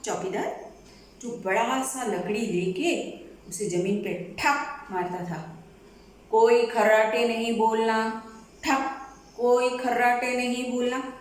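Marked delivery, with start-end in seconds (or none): 6.3-11.1 watchman calling out. Acted. Watchman calls out his rounds.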